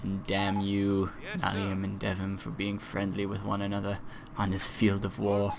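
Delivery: a mock English accent for a jokey curse at the players; terrible English accent. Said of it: "lapsed into a terribly terrible English accent".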